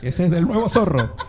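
laughing while talking, rising pitch; amused laughing protest. Real, not acted. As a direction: laugh through the words. Laughing at show confusion.

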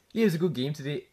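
put-on botched Scottish accent that slides into Welsh; Scottish accent gone Welsh. Lad retrying his impression for mates, Scottish accent drifting Welsh. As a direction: attempt Scottish, land in Welsh. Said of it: "that was Wales".

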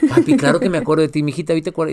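quickly brushes off dad, lightly voiced girl; imitating daughter. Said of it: "Y también muy celoso".

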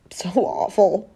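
a slow, breaking whisper; real tearful whisper; choked whisper. Real, not acted. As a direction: barely get the words out, overcome. Overcome while describing her illness.

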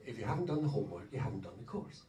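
imitating a soft, sweet admonition; sweetly put reminder. Speaker quoting course leader Bill on homework, sweetly. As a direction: drop the volume and say it kindly. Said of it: "He says it very sweetly".

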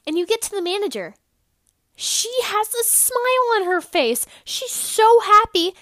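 high, loud, bubbly overexcited delivery; exaggerated cheery storytelling. Podcaster hamming up a happy grocery trip, over-the-top cheerful. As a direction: ham up the giddy happiness. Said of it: "I know I'm being funny".

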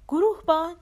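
loud, high-pitched call. Acted. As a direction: call harder for someone not answering. Calling again, no answer. (صدا زدن بلند و زیر)

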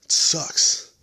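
mock the way the guy talks; lightly whined movie quote; mock whiny line. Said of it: "who the fuck talks like that".

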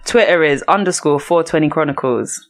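talking with water in mouth; water held in mouth. Real, not acted. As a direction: wet mouth from a retainer. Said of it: "I feel like there's bare water in my mouth".

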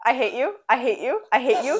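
light teasing I hate you; fake-angry at being tricked; playful mock hatred. Real, not acted. Cohost teasing the friend who fooled her, mock hatred.

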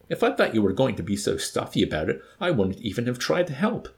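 offended, rising high on the last words; an indignant corporal, wounded pride. Acted. Wickham snapping at the chaplain, indignant. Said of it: "declared indignantly".

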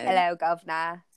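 mock British greeting; British accent. Joking with friends about getting accents, mock British. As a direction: put on a playful British accent. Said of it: "British accents someday if we wanted".

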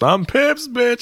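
high, hammed-up yell; mock drunk yell. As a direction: belt the drunk tagline. Imitating a bar crowd member.

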